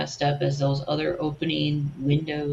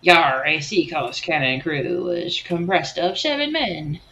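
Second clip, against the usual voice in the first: pirate voice. Pretend. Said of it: "Just sound like a pirate when you talk".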